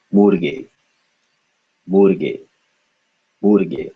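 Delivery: "Murge" as mur plus gay, falling at the end; pronunciation drill. Shown as a demonstration. Teacher drilling the word, "Murge" said evenly with pauses between. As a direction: repeat "Murge" as two joined syllables, mur-gay. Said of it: "Second syllable".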